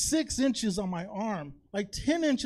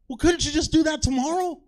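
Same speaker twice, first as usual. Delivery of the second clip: higher, louder exasperated plea; exasperated friend; 7 semitones higher, 7 dB louder than usual. Retold or imitated. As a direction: push back at him, fed up. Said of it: "'Cause then she said".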